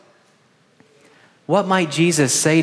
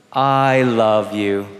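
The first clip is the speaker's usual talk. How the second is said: tender parent's I love you; 3 semitones lower, much slower than usual. Pretend. Parents saying it at bedtime.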